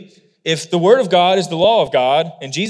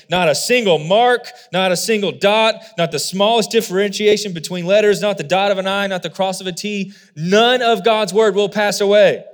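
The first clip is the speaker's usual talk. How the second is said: forceful, stacked-up insistence; emphatic; 2 semitones higher than usual. Shown as a demonstration. Preacher showing the Greek double negative strengthens, emphatic. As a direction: hammer every "not" and land firmly on "none". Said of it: "So emphatically".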